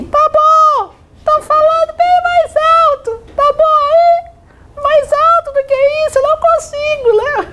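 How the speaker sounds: squeaky falsetto, very high; comic high-pitched reply to the class. Shown as a demonstration. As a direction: push the voice as high as it will go. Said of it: "eu deveria responder assim".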